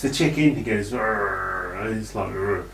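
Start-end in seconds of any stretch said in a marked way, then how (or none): 0.9-1.7 imitated low, rumbling growl; wordless growl. Reviewer imitating Kane attacking the chicken, low wordless growl. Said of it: "'cause he can't talk". 2.3-2.6 low imitated growl; wordless growl. Reviewer imitating Kane who can't talk, low growl. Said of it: "'cause he can't talk".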